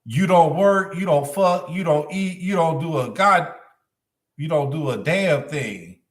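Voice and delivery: a hint of a nagging woman; woman's voice. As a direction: raise the pitch for a woman's tirade. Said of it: "And then the woman's voice".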